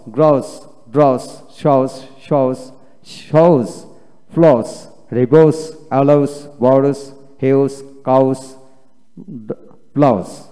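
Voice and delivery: word list, "থ্রোস" and "গ্রোস" ending in a crisp s, not sh; dental S. Shown as a demonstration. Teacher showing learners the W-plus-S ending, "ফ্লোস" said with dental s. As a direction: end each word like "নাউস" on a clear dental s. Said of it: "দন্তাস্য".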